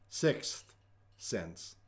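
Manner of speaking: breathy hushed title, dropping to nothing; spooky whisper. Acted. Host whispering the movie title to viewers, eerie hush. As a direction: breathe the title like a ghost story.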